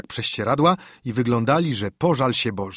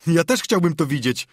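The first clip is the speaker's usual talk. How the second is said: contemptuous snort; 5 semitones higher than usual. Acted. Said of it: "prychnął pogardliwie Joe".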